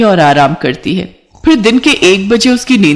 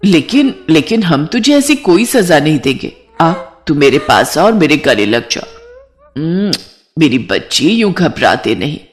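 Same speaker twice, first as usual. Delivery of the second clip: lightly voiced motherly soothing, sinking lower; comforting mother-in-law; 3 semitones lower than usual. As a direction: gently reassure a frightened child. (दिलासा देती सास की हल्की आवाज़)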